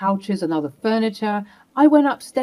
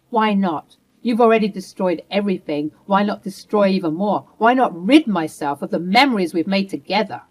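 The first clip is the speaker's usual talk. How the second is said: bitter rage. Acted. Wife raging at her husband over the betrayal, bitter. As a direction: lash out, nothing left to lose.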